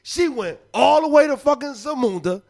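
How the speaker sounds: impassioned sermon-like retelling with punched phrases; preaching. Real, not acted. Man retelling a movie to prove his point, preaching. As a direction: preach the story like a lesson. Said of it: "It's like he preaching right now".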